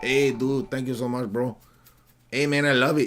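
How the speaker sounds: put-on Mexican-accented character voice. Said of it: "I give you an accent pass to do that voice".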